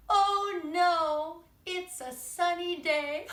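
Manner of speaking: high, loud, slow oh no; a disappointed little worm; dismayed worm. Acted. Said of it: "And they cry".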